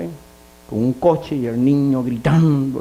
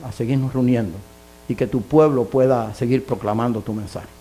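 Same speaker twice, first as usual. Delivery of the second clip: closing prayer. Real, not acted. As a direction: pray sincerely on behalf of the congregation.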